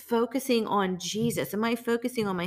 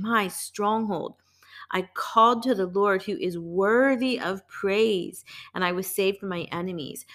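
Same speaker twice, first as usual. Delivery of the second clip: heartfelt. Shown as a demonstration. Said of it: "I'm feeling".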